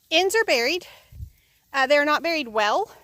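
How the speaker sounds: breathless after digging; panting between words; out of breath. Real, not acted. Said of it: "and I'm out of breath".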